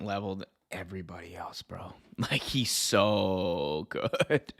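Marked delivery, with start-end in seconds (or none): 2.2-4.5 very drawn-out, laugh-filled gushing; laughing admiration. Real, not acted. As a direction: stretch the words out through laughter. Gushing over the clip just played.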